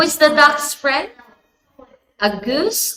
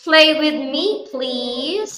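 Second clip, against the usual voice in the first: pleading duck voice; 4 semitones higher, slower than usual. Acted. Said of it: "And the duck says".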